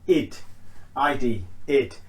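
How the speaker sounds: a short "id", sounded as one syllable and spelled out. Shown as a demonstration. Teacher showing students the first ED ending, id sound. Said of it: "first way to pronounce it".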